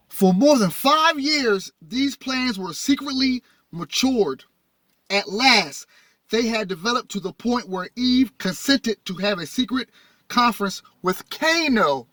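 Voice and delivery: slow, deliberate public reading; emphatic reading aloud. Acted. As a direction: land each phrase, pausing between them. Reads text aloud to audience.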